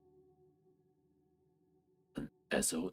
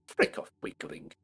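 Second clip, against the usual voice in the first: whisper. Acted. Insult muttered.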